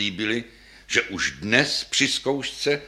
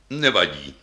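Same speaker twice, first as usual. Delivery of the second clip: deep voice; 5 semitones lower than usual. Acted. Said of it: "odpověděla stojící basa také hlubokým hlasem".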